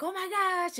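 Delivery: imitating a nervous cousin. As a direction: voice a frightened cousin, only lightly. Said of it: "She was like".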